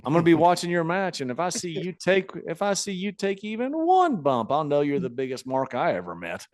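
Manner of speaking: lightly voiced veteran lecturing; Honky Tonk Man. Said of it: "And he goes".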